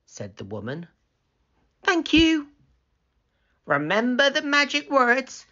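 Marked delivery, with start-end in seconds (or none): 1.8-2.5 put-on very high storybook girl; high, lifted character voice; Hannah's grateful voice. 3.7-5.5 high storybook woman's voice; lifted instructing voice; woman character. Acted.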